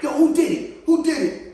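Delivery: loud, high demand from a big brother; demanding who did it. Retold or imitated. Brother and cousin demanding answers, loud and high. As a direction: call out the culprit, loud and high.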